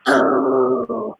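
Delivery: drawn-out grumpy "urgh"; mad growl. Shown as a demonstration. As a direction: play mad with a growled groan. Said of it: "'cause I'm mad".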